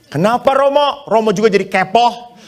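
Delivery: mock lady answering the priest; cheeky woman. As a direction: tease the priest back.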